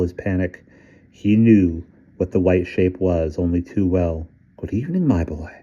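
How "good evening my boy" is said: put-on faint British accent. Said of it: "said the voice with its faint British accent".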